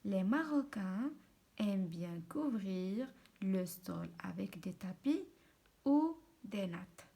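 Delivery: slow, measured French reading aloud; dictation-style reading. Shown as a demonstration. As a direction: read it out slowly, phrase by phrase. (قراءة بطيئة بحال الإملاء)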